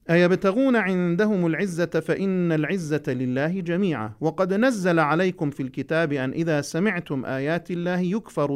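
measured, slow recitation; Quran recitation. Acted. Teacher reciting a verse to students, slow measured recitation. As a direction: recite each word deliberately for the class.

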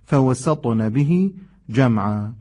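slow فوسطن به جمعا with a light, clear س in فوسطن; drawn-out فوسطن به جمعا, front vowel after the س; clear sin. Shown as a demonstration. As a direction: recite فوسطن به جمعا slowly, keeping the s thin. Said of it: "قشنگ حرف سین تلفظ بشه".

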